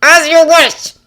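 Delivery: strained gritted words; through gritted teeth. A narrator's reading. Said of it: "pressed out through his teeth".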